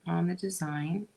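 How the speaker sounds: talking while chewing gum. Real, not acted. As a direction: chew gum as you speak. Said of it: "talk and chew gum at the same time".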